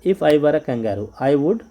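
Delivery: slow, deliberate classroom recitation; slow rhyme reading. Shown as a demonstration. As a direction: read it out slowly for children. Reading the rhyme line slowly.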